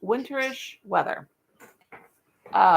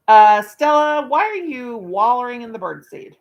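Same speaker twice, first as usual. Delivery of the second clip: calling the dog; 3 semitones higher, 9 dB louder than usual. Real, not acted. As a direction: call out to the dog in the birdseed.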